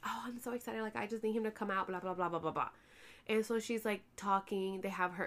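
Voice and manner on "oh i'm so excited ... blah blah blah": mock whisper. Mocking the excited girlfriend.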